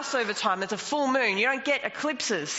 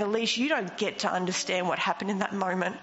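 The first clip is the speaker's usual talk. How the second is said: gentle rebuke. Retold or imitated. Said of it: "He gave me a gentle rebuke saying".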